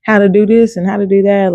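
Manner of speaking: imitating your own worn-out fussing; whiny complaining. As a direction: pile up complaints in a mock whine. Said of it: "fussing, whining, complaining".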